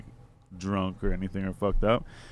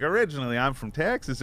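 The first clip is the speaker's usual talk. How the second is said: imitated Texan, higher and louder; put-on Texas accent; 4 semitones higher, 4 dB louder than usual. Retelling the stranger's origin claim, put-on Texas accent. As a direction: announce it in a mock Texas accent. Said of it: "he starts with a different accent".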